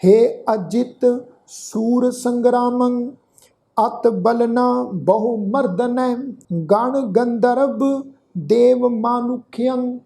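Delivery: slow, measured chanting of a sacred verse; scripture recitation. Acted. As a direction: recite each phrase slowly with long pauses. Teacher recites the shloka.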